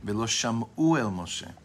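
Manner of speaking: sham'u said slowly and leaned on; stress on sham'u. Shown as a demonstration. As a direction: dwell on sham'u so it stands out. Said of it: "emphasize the word sham'u".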